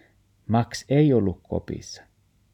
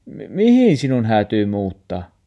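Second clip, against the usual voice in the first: louder, stumbling question; grandma stammering, louder; stammering shock; 2 semitones higher, 7 dB louder than usual. Acted. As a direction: trip over the first word in shock.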